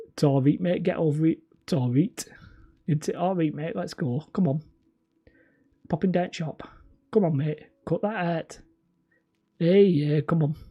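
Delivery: lightly hammed-up northern English accent; strong northern accent. Shown as a demonstration. Showing off a lost home accent, northern English. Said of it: "strong northern accent without sort of sounding like".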